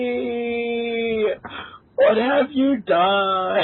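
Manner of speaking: slow, high, laughing through the words; laugh-crying. Real, not acted. Reader scolding Amy for her writing, laughing helplessly.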